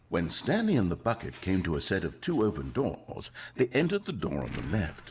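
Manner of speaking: storytelling voice. Acted. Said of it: "Here we go. You ready?".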